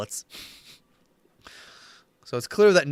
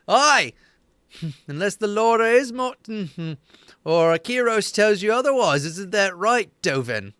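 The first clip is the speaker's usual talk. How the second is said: mocking laughing taunt; 7 semitones higher than usual. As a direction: needle him with a laugh. NPC mocking Dovin, laughing.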